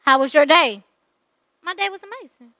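soft, low imitation of dull small talk; mock small talk. Woman mimics her dude's how-was-your-day chat, quiet and offhand. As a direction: play a tame couple's chat, very softly.

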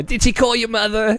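high fussy Jewish grandma. Retold or imitated. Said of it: "the Jewish grandma voice".

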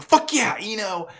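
high-pitched mock cheer; gleeful retold whoop; excited cheer. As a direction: cheer them on, voice leaping up. Retold cheer for Ino piloting.

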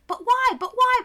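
put-on high, loud, insistent kid voice; hammed-up child questioning; pestering little girl. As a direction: nag repeatedly like a curious child. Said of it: "she'd be like".

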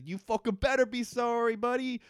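high, loud mock fury from a girl; angry Alex. Alex voiced snapping at her father Ben, mock angry. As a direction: shove the words at him, furious. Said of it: "And Alex says".

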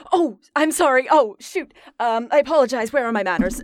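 awkward, apologetic fluster; flustered apology. Acted. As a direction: stumble through a mildly mortified apology. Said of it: "a little bit in embarrassment".

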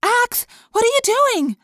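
high, loud outraged demand; loud, alarmed demand for an explanation. A narrator's reading. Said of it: "Cassie demanded".

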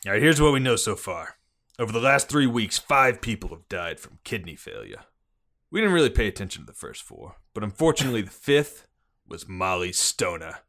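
put-on police chief briefing in a Boston accent; gruff-cop Bostonian, dropped R's. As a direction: lay out the case in Boston cop talk. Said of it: "is that a Bostonian accent there?".

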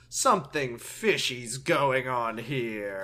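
slow, loud suspicious king; drawn-out theatrical suspicion; hammy stage actor. Retold or imitated. Voicing suspicious King Ham.

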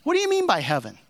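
high-pitched imitation of a heckler's question; retold calling out. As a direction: imitate someone piping up from the congregation. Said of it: "he called out and he said".

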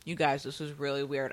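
talking while crunching candy; mouth full. Real, not acted. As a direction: chew and talk at once. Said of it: "I'm sorry for the crunching".

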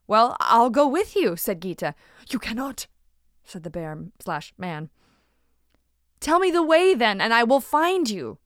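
insist, brave and eager; determined young woman. Acted. Gita insists on following.

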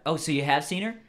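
put-on loud, stereotypical California surfer accent; SoCal surfer accent. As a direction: explain yourself as a SoCal surfer. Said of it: "I'm doing the stereotypical SoCal surfer accent".

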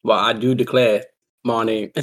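hammed-up Southern "I do declare"; mock Southern accent. Sibling giving his own redneck take, mock Southern accent.

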